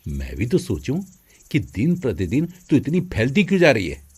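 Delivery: low, fast angry brother. Acted. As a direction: catch her out and scold her. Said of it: "गुस्से से बोला". (गुस्से में बड़ा भाई)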